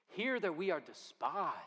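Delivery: mild desperate prayer; urgent plea. Acted. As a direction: plead as if begging to be heard. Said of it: "urgent and desperate prayer".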